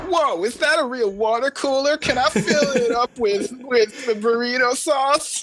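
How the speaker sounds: very high, slow cartoonish voice; Tutu. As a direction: play an eager, clueless job applicant in falsetto. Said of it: "talking like that".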